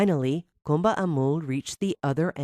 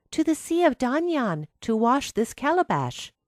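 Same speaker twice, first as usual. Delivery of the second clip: lightly voiced girl, higher and polite; polite reply; 8 semitones higher than usual. A narrator's reading. Kumba Amul answers the enchanted baobab tree, politely. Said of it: "she politely replied".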